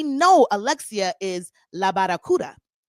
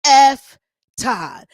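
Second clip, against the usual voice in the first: loud burst on the first word; mock triumphant yell; 4 semitones higher, 8 dB louder than usual. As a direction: cheer it out like a crowd-pleaser. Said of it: "says the words that Marisol has been waiting".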